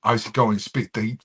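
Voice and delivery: conversational London street voice; light Black British London accent. Acted. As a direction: talk like a London rapper chatting. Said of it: "it's like this".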